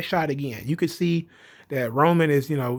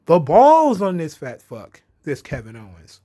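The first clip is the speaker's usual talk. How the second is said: impressed outburst; 6 dB louder than usual. Retold or imitated. Reacting to Owens' promo.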